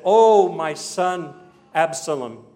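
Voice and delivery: mild mock wail, drawn-out loud opening; acted father's grief, without real sobs; grieving lament. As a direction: lament slowly, swelling on the first cry. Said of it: "a bitter weeping, a wailing kind of weeping".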